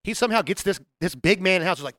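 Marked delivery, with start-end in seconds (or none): none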